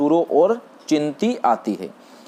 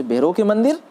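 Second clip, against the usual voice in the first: astonished, pitched up high; surprised; 7 semitones higher than usual. A narrator's reading. Madhu echoes her friends' mix-up in astonishment. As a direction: echo it back in disbelief. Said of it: "मधु आश्चर्य से".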